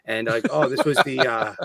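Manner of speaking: mock local guide with a Boston accent; Boston tour guide. Local showing visitors the Freedom Trail, mock Boston guide. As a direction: show them round in thick Bostonian. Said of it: "Bostonian accent was so thick".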